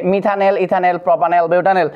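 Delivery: "মিথানেল" ending in -nel; short drill of "মিথানেল" and its series with -el endings; ending pronounced EL. Shown as a demonstration. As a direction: recite each name closing on -el, as in "বিউটানেল". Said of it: "অ্যালডিহাইডের ক্ষেত্রে এল".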